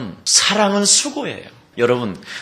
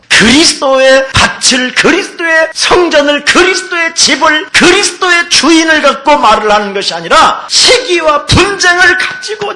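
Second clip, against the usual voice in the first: much higher and louder, shouting each phrase; full-force preaching; 12 semitones higher, 8 dB louder than usual. Acted. Preacher thunders at the congregation in full force. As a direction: hammer the list home from the pulpit.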